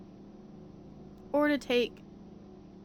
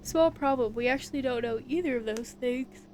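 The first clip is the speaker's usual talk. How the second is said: words stretched by a yawn; 2 semitones higher, 3 dB louder than usual. Real, not acted. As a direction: talk through a yawn. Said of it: "I don't know why I'm yawning a lot".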